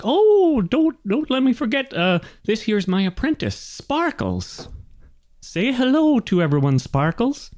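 high-pitched gnome, suddenly remembering; oblivious old gnome. Acted. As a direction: exclaim high, then introduce the apprentice. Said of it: "And he's like".

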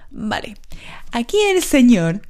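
whispered aside. Real, not acted. Hushed aside before doctor's words.

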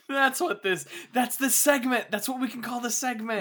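giggling while talking; laughing. Real, not acted. Laughing at shark tank joke.

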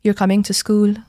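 "You're coming to school?" worded as a statement, turned into a question by tone alone. Shown as a demonstration. Maltese speaker showing classmates home English, "You're coming to school?" as a toned question. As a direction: put the question mark only in the tune of "You're coming to school?". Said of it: "say the statement with, in a different tone".

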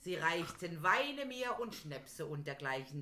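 langsam vorgetragenes Gedicht, leicht deklamiert; Gedichtvortrag nach Heinz Erhardt. Acted. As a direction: sprich den Reim gemessen wie beim Vortrag. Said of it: "Heinz Erhardt hat mal". (langsamer, leicht feierlicher Gedichtvortrag)

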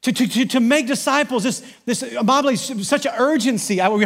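fervent preaching. Acted. Pastor rallies congregation about making disciples, fervent preaching. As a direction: preach it with rising fire.

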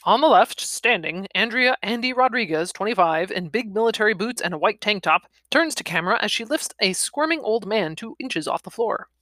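brisk, lifted presenting voice; announcer-like narration. A narrator's reading. Reader introducing Andy lifting the old man, presenting narration. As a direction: present the tableau like a caption.

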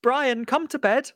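slow, weary wife's plea; wife pleading with husband to come to bed, slowly; wife calling to bed. Acted. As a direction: coax him to bed, tired. Acted couple, wife calls.

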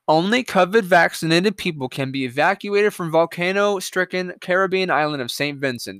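deliberate, measured headline read. Shown as a demonstration. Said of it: "I'll read that slower".

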